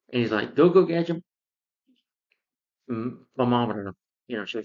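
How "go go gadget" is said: high, loud cartoon catchphrase; called-out command. Gadget summons a gadget, loud mock-heroic call. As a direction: imitate a hero calling out his gadget.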